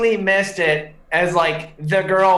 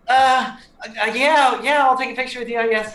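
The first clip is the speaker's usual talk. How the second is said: lightly voiced hesitant teen, a bit higher; reluctant thirteen-year-old; 4 semitones higher than usual. Imitating a teenager asked for a selfie, half-hearted agreement. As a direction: agree haltingly, as if doing a favor. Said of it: "thirteen-year-old's like".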